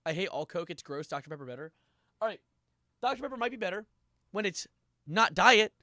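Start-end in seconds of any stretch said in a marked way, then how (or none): 5.1-5.7 louder, disgusted rant; emphatic rant. Real, not acted. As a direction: spit out the disgust. Ranting about diet soda.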